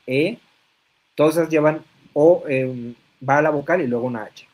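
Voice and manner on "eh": demonstrated questioning "eh"; a short "eh?" of not understanding; mildly puzzled example; puzzled interjection. Shown as a demonstration. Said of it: "cuando no lo entiendes y dices".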